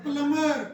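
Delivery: प्लम्बर said as plumer, b left out, stressed loud; silent b. Shown as a demonstration. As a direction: say प्लम्बर without the b. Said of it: "इसमें बी silent होता है". (प्लम्बर को बिना बी के, ज़ोर से)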